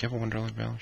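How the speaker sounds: under the breath. Retold or imitated. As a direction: slip the question out under your breath. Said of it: "Under my breath".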